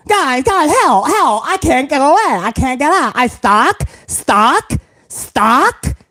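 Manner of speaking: lightly voiced kid, garbled and stuck; a hint of a kid who can't pull free; kid with tongue stuck to flagpole. Mock kid stuck to the flagpole calling his friends. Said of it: "the kid that's got his tongue stuck".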